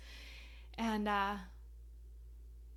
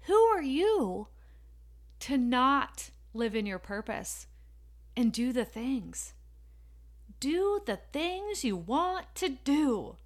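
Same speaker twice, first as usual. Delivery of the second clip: motivational preaching; 2 semitones higher, slower than usual. Acted. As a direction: challenge the listener to act. Motivational exhortation.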